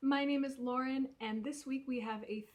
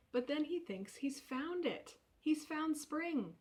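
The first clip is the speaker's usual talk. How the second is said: mock excitement; 5 semitones higher than usual. Teasing the plot twist.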